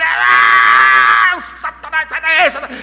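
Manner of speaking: loud hammed-up rebuke of Satan; mock terrified yell. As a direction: yell it like a scared new dad. Terrified father at the birth. (grito assustado de brincadeira)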